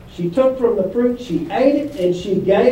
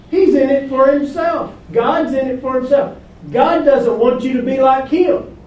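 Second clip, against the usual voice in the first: Satan's whisper of doubt; 4 semitones higher than usual. Acted. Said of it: "that's what Satan is saying here".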